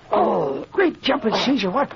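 usual speaking voice

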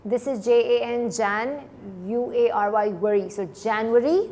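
January spelt out, then sounded as "Jan", "worry"; phonics breakdown. Shown as a demonstration. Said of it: "उन्हें कैसे pronounce करते हैं". (January को हिस्सों में तोड़कर उच्चारण)

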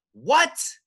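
high, loud outraged what; shocked exclamation. Acted. Dentist hears the patient won't pay, shocked exclamation. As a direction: blurt it out in disbelief. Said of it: "exclaimed Doctor Payne".

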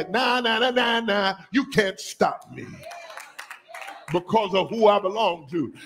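sing-song dare of "Nah, nah, nah"; defiant nah nah. Shown as a demonstration. Preacher teaching the church to taunt the enemy, defiant and sing-song. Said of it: "why are you saying it like that".

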